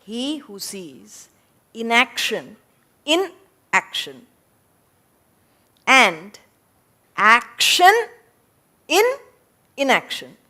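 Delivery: deliberate reading, long gaps between pieces; slow, broken up. Shown as a demonstration. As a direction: read it slowly, phrase by phrase with pauses. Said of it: "got to read it slow, break it up".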